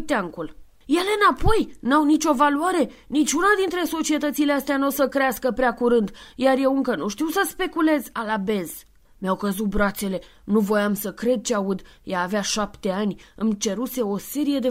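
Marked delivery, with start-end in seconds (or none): 0.9-8.7 put-on high, loud indignant child; angry little girl. Antonia rejects Santa's papers in a high, loud temper. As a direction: fling the words back in disgust.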